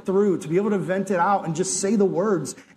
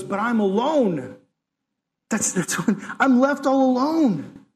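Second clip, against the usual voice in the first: whiny Elijah; 4 semitones higher than usual. Acted. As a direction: whine it out like a self-pitying prophet. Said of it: "He goes".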